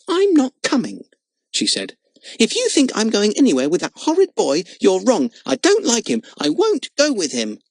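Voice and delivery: put-on high, loud girl's tantrum; sulky temper. Lotta refuses to go with Frick, high loud tantrum. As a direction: stamp and refuse in a rage. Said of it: "stamped her foot in a temper".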